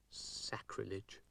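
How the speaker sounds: slow, soft, unvoiced disgust; disgusted mutter. A narrator's reading. Dougal leaves the pipes in disgust, muttering softly and slowly.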